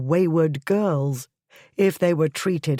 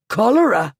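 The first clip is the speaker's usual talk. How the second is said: shocked; 6 semitones higher, 6 dB louder than usual. A narrator's reading. Tolstone shocked by the word.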